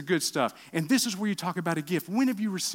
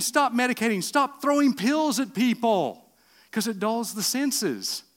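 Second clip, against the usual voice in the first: quoting the experts; 7 semitones higher, 5 dB louder, slower than usual. Retold or imitated. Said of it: "They're the ones saying".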